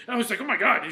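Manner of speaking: laughing loudly through the words. Retold or imitated. Retelling the bartender story, laughing loudly. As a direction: crack up while telling it.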